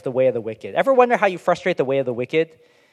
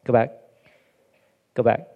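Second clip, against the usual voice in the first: urging the slides; 2 semitones lower, 4 dB louder than usual. Real, not acted. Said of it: "What I wanted to do was go back now".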